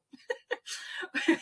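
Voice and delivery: a short high airless laugh; rueful laugh. Real, not acted. Telling the interviewer about mom's will, a short high laugh. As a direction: laugh it off, half in disbelief.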